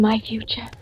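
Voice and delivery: soft breathy whisper trailing off. Acted. Blind girl whispering to the fortune teller. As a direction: whisper it, half afraid to ask.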